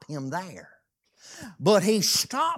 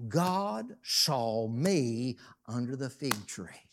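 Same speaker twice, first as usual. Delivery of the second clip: Nathaniel's testimony; 7 semitones lower, 7 dB quieter, slower than usual. Retold or imitated. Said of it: "Guess what?".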